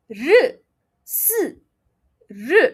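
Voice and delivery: r, s, r held as buzzing sounds with no vowel. Shown as a demonstration. Teacher demonstrating fourth row sounds loudly. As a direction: hold r and s without a vowel. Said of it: "You pronounce it as s".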